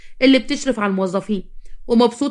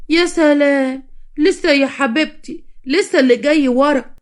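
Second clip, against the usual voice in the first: mocking; 5 semitones higher, slower than usual. Mother-in-law mocking exhausted girls.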